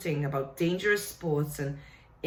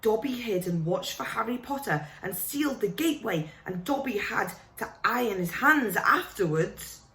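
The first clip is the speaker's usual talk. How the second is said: higher, pleading little elf voice; a fretful elf begging Harry to listen; house elf; 4 semitones higher than usual. Acted. Dobby the house elf pleading with Harry, high and anxious.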